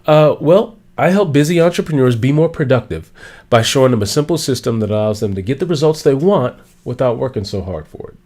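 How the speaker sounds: clear, assured one-sentence pitch; confident pitch. Shown as a demonstration. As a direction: deliver it like you own the room. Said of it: "This is how I introduce myself now".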